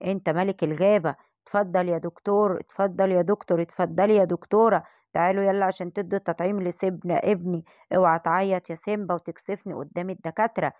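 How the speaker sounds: steady your scared cub; proud lion father. Acted. Lion king bracing his son Simba for the shot.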